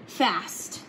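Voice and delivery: ordinary delivery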